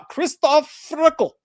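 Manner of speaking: high, loud, slow donor callout; excited announcement. Acted. Announcing a donation.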